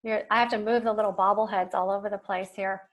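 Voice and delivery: mic popping on the p's; popping p sounds. Real, not acted. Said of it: "Sorry about the popping sound".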